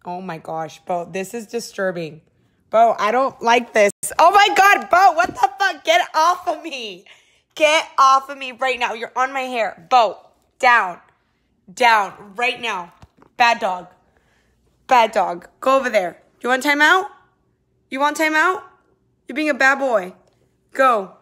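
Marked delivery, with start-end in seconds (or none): 2.7-7.0 high, loud shrieking at the dog; panicked shriek. Real, not acted. Dog jumps on her hair, she shrieks in real panic. 7.6-21.1 loud, firm scolding with a higher voice; scolding the dog. Real, not acted. Owner scolds her dog Bo for jumping on her, loud and firm.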